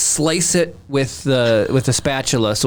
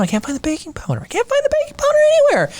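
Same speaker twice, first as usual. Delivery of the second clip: high-pitched mock panic, speeding up; frantic exasperation; faster than usual. Dad retelling his search for baking powder, frantic. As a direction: build to a comic high wail.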